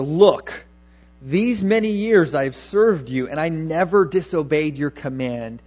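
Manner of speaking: a son angrily answering his father, reproachful; harsh, disrespectful. Acted. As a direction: snap "Look" at a father, a moderately voiced resentful son. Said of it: "very disrespectful and very harsh".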